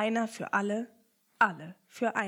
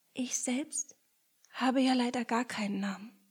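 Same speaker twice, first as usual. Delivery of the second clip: sigh; 2 semitones higher than usual. Acted. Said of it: "seufzte sie".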